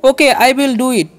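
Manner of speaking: slow example sentence. Shown as a demonstration. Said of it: "ठीक है".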